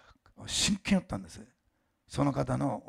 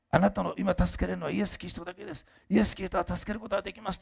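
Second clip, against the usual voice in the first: higher-pitched, insistent declaration; retold message delivered emphatically; emphatic proclamation; 7 semitones higher than usual. Reads out urgent gospel message.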